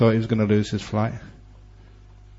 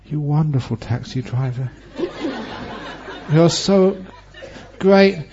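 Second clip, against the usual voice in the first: overjoyed thanks; 4 semitones higher, slower than usual. Retold or imitated. Grateful man after crash averted.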